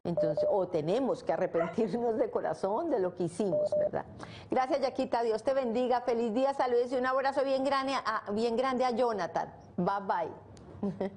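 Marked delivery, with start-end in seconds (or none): 4.5-11.1 higher, cheerful goodbye to the caller; bright farewell. Real, not acted. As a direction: send her off beaming, pitch up high. (despedida alegre y aguda)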